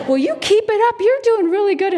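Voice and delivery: high, loud cheering-on; excited encouragement. Retold or imitated. Runner cheering on a little boy, excited encouragement. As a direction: urge a small child on brightly.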